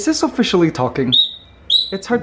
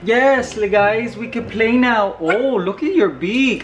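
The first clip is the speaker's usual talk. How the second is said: higher, sing-song cooing at the bird; 4 semitones higher than usual. Real, not acted. Owner cooing to the parrot at playtime, higher pet talk.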